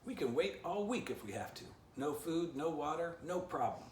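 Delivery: high, loud, blustering threat; mock-tough shout. A narrator's reading. Stick Dog bluffs to the squirrel, high and loud. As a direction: play tough badly. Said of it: "doing his best to look as tough".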